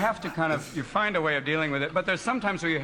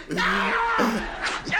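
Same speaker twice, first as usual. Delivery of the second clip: mock triumphant yell; 4 semitones higher than usual. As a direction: cheer it out like you won. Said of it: "be really truthful and go".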